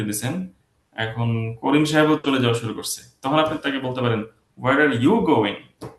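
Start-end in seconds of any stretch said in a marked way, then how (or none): 4.6-5.9 drawn-out question with the weight on "you"; stress on YOU. Shown as a demonstration. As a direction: lean hard on "you" to single them out. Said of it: "জোরটা হচ্ছে you-তে".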